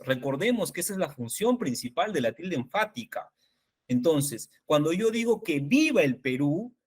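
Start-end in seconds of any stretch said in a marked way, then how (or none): 5.4-6.8 "viva" carries the main stress in "que viva el Perú", "que" unstressed. Shown as a demonstration. Teacher demonstrating emphasis to colleagues, stress on "viva". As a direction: lean on "viva", let "que" pass lightly. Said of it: "¿cuál es la palabra que tiene mayor énfasis?".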